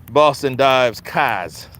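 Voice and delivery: Boston accent with "dives" said without the r, slow. Shown as a demonstration. Mocking how Boston folks say drives, in a Boston accent. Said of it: "I stayed in Boston".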